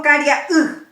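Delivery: "caria, uj" with weight on the final "uj"; phonetic final stress. Shown as a demonstration. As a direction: stress the last vowel of "caria, uj" by voice. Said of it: "Sí fonético".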